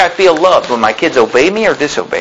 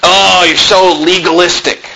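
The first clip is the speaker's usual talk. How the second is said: mocking critic. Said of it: "have you ever heard this term legalism".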